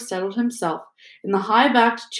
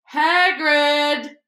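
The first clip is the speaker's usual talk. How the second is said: firm loud call; 6 semitones higher than usual. Acted. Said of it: "said Dumbledore loudly".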